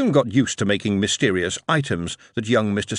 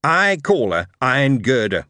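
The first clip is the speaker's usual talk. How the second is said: put-on proud young lad; 3 semitones higher, 4 dB louder than usual. Dick naming his machine.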